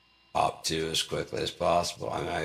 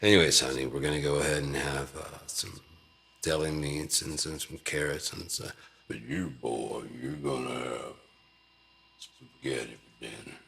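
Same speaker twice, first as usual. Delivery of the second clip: lightly voiced country dad; 3 semitones lower than usual. Father telling wife and boy what's for dinner. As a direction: play a drawling dad at supper. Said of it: "talk to your kids that way".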